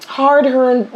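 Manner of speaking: a hint of Irish on "hard-earned"; Irish accent slipping out. Real, not acted. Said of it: "did you hear my accent came out there?".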